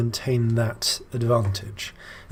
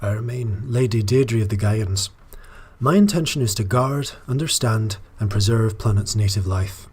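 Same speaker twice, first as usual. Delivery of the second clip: lightly put-on Scottish accent drifting Irish; a not-quite Scottish lilt, almost Irish. Player reading Lady Deirdre's lines, in a drifting Scottish-Irish accent. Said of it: "Almost a little Irish there".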